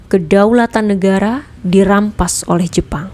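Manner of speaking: understated gloom with a weighty tone; heavy and gloomy. Shown as a demonstration. Narrator demonstrating intonation on news of lost sovereignty, mildly gloomy. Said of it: "Gunakan intonasi berat dan muram".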